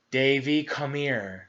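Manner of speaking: put-on even, calm call to a child. Shown as a demonstration. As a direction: say it settled, no edge. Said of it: "in a calm voice is different than saying".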